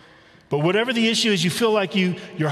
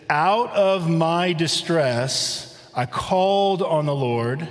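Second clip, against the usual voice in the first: slow scripture reading; slower than usual. Shown as a demonstration. Pastor reading the key verse to the congregation, slow and solemn. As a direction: read the verse slow and deliberate, weighing each word.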